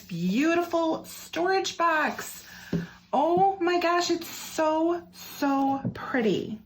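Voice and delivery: high, breathless squeal of delight over a pretty box; delighted gush. Real, not acted. Vlogger shows viewers her new storage box, squealing delighted. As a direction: let the pitch soar as you gasp at it.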